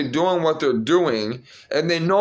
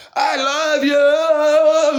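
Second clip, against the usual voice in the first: play-acted shrieking, very high, love drawn out; 11 semitones higher, 4 dB louder than usual. Retelling how a child on a bike kept saying it, imitating someone screaming. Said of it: "screaming it".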